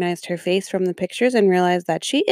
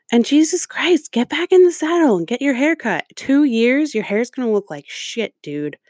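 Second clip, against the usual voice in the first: real exasperation; 5 semitones higher than usual. Real, not acted. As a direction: let the anger burst out. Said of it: "getting me mad all over again".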